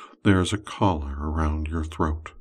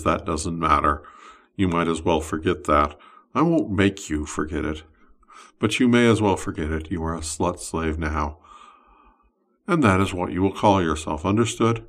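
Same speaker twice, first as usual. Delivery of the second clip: louder, possessive summoner speaking; wizard's voice; 4 dB louder than usual. Acted. Wizard claiming his summoned slave, louder possessive voice. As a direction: claim the summoned one as your own. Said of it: "and he says".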